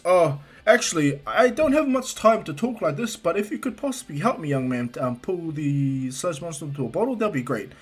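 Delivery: All Might. Acted. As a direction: stretch the opening words like a busy hero. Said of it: "All Might looks around and goes".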